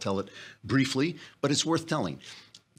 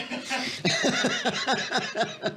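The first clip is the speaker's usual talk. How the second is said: hearty laugh at his own punchline; real laugh. Real, not acted. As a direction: burst out laughing.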